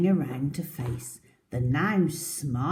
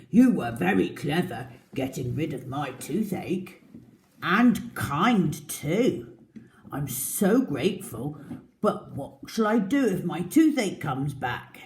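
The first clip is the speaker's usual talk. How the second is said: crocodile voice; 5 dB louder than usual. Acted. Crocodile thanks mouse.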